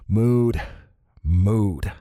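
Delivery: tense, understated irritation; through gritted teeth. A narrator's reading. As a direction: say it through your teeth, lightly. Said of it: "I said through my teeth".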